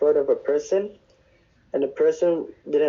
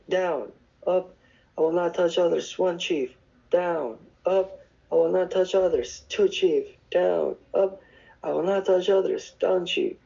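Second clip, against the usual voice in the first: recited push-up count, slightly higher; counting off exercises; 4 semitones higher than usual. Retold or imitated. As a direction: imitate a rote punishment count-off. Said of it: "He counted off the exercises".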